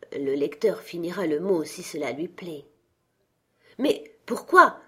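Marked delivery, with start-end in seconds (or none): 3.8-4.8 mild mock cry of why, higher and slow; exclaiming. A narrator's reading. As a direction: ask why with a slow rising plea. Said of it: "s'écria son neveu".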